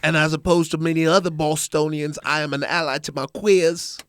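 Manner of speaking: put-on Christopher Walken Boston accent. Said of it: "Christopher Walken doing a Boston impression".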